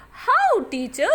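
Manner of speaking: incredulous. Acted. Kids questioning the teacher.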